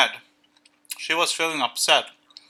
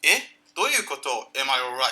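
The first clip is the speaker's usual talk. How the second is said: confused surprise. Retold or imitated. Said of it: "って言った".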